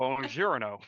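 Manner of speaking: hammed-up Italian accent. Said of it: "It's, like, the best Italian accent".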